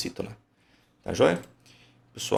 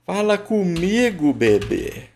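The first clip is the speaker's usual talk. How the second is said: higher, slow call; 8 semitones higher, 4 dB louder, slower than usual. Shown as a demonstration. Teacher calls to the word to find its stress, calling out. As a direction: call out as if summoning someone.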